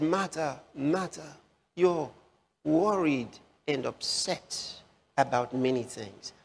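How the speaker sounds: tender rebuke. Acted. Lord tenderly addressing Martha.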